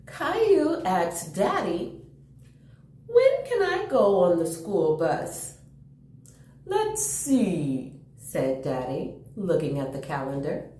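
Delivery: put-on lively storybook reading for kids; gentle picture-book read-aloud; reading to children. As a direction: read it like story time for little ones.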